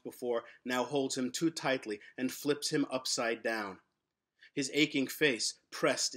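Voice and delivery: measured, unhurried storytelling read; story narration. A narrator's reading. Author reading his story to listeners, measured storytelling. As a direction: draw listeners into the mystery.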